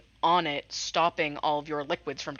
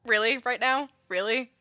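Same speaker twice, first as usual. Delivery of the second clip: incredulous; 6 semitones higher, 6 dB louder than usual. Real, not acted. Player incredulous at own line.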